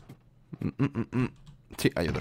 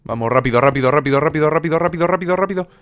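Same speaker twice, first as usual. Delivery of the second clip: excited urging; 6 semitones higher, faster than usual. Real, not acted. Urging on, rising chant.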